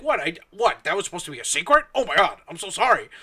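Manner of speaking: fake-surprised, hammed-up apology; mock innocent Victor. Mocking Victor feigning surprise at the leaked secret. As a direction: play dumb like you never knew. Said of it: "and then he'll be like".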